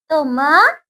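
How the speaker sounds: म-छ-ली split into three separate syllables; spelling मछली aloud for a class. Shown as a demonstration. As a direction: sound out मछली as म, छ, ली. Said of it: "syllable by syllable spelling".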